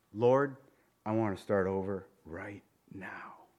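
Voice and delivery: hushed, breathy whisper to God; whispered prayer. Pretend. Preacher whispering a prayer of surrender. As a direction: whisper it like a private confession. Prayer voiced softly to the Lord.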